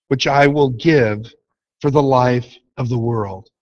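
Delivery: preacher reading Jesus' words to the congregation, measured and solemn; scripture reading. Acted. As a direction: read the verses solemnly, letting each line land. Reads scripture passage aloud.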